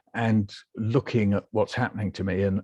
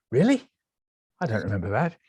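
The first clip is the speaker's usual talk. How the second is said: mock astonishment; faster than usual. Patient reacting to nurses' letters, astonished. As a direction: pitch it right up in disbelief.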